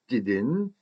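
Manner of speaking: "interested in" slowly as "in-to-res-tid-in"; full pronunciation. Shown as a demonstration. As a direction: sound every syllable of "interested in". Teacher spells out the full form.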